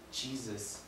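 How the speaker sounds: soft, strained attempt to speak; labored call. Dying robber calls to Jesus, labored and soft. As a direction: call out with little breath to spare. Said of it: "hard to breathe and speaking makes it that much harder".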